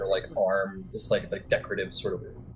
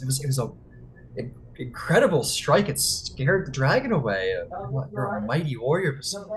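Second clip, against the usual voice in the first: lightly raised, flattering voice; flattering Thalia; 4 semitones higher than usual. Acted. Thalia buttering up Basan with praise. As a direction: flatter the warrior sweetly. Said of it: "She goes".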